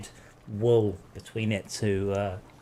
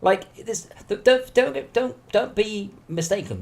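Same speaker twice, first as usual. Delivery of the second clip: worked-up rant; 10 semitones higher, 6 dB louder, slower than usual. Real, not acted. Heated rant about fuel prices.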